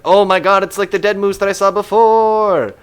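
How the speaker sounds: loud, high, hammed-up astonishment; mock amazement. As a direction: exclaim it in exaggerated disbelief. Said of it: "And we'll be like".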